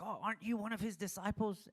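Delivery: high, pointed accusing question; a hint of an angry accuser; mild mock accusation. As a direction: jab a finger with the question.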